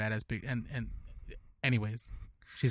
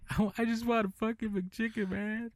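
sore throat; 9 semitones higher than usual. Real, not acted. Sick, craving food.

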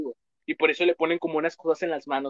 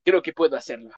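lightly voiced anime boy; a hint of a nerdy anime fan; anime kid voice; 3 dB louder than usual. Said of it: "no lo dice así". (voz de anime ligera)

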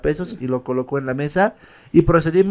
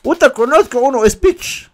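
much higher mock taxi driver; driver's answer; 10 semitones higher than usual. The mototaxi driver answering the boy, high mock voice. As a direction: toss off the tip like a streetwise driver. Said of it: "le dije al mototaxista".

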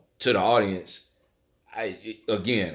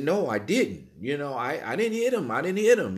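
put-on frightened boy, much higher, pleading he didn't; pleading denial; 4 semitones higher than usual. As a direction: beg them to believe you. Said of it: "And I said".

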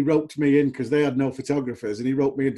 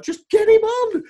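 high, loud, slow yell: Just get him on!; retold shout from the stands; 8 dB louder, slower than usual. Fan in the stand yelling at the manager, loud and slow. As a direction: bellow it at the manager. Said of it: "it'd be like".

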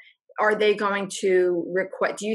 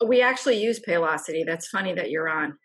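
chewing while talking; 2 semitones lower than usual. Real, not acted. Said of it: "I'm eating my lunch".

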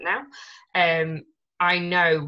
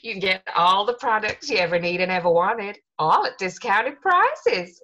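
put-on American salesman accent; 3 semitones higher than usual. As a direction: sell it like an American network-marketing guy. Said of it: "he just taught us this spiel".

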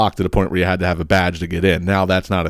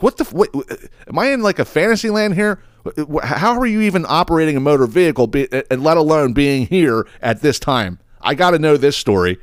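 incredulous disbelief; 7 semitones higher than usual. Retold or imitated. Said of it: "I'm like".

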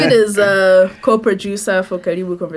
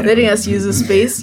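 radio voice. Shown as a demonstration. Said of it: "I'm putting on my radio voice".

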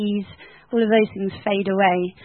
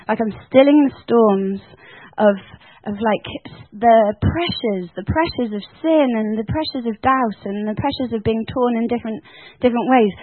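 lightly voiced Jesus, laughing and louder; a hint of a joyful Jesus voice; 4 dB louder than usual. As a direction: let Jesus sound playful and glad. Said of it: "he said".

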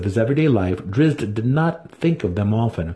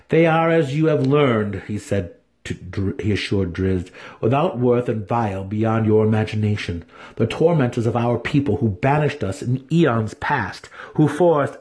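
growing excitement; 2 semitones higher than usual. Acted. Dinin ranting about surface elves to Drizzt: building excitement. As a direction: work himself up as he speaks. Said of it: "increasing volume of excited brother's voice".

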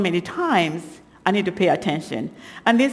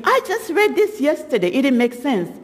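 retold puzzlement; 6 semitones higher than usual. Retold puzzled thought while reading.

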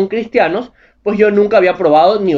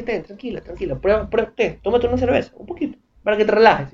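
soothing soft offer; 2 semitones higher, 6 dB quieter than usual. Retold or imitated. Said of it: "compadre le diga".

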